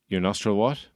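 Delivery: held posh English persona. Retold or imitated. Comedian keeps up the posh persona, lightly voiced. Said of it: "Maybe you should just stop doing this voice".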